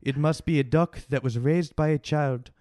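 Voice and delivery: deliberate, muddled mock French accent; botched French accent. TV chef laying down strict recipe rules, botched French accent. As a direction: attempt French and land somewhere vaguely Armenian. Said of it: "About an Armenian guy".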